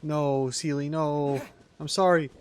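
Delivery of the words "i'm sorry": talking through hiccups; hiccuping between words. Real, not acted. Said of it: "I have the hiccups now".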